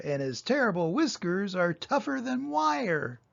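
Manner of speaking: a hint of a monster father spinning a scary tale; lightly voiced Gruffalo dad. Dad scares his child with a tale, lightly voiced. Dad describes mouse, timbre changed.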